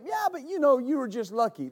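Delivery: high-pitched imitation of a skeptic; dismissive doubter. Preacher imitating people who put it down to luck, dismissive. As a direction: start high, brushing the story off.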